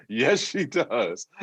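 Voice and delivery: slow, deliberate assurance; slow confirmation. Real, not acted. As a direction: spell it out slowly for the listeners. Confirms to listeners, emphatically.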